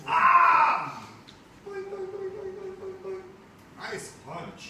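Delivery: high, loud cartoonish put-on cousin voice; exaggerated high cousin voice. Teacher reading the comic to the class, high cartoonish cousin voice. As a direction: play the visiting cousin big and squeaky.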